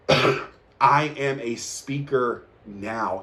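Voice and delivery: slow, certain declaration; calm conviction. Shown as a demonstration. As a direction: say it like it's already true. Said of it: "I could feel it".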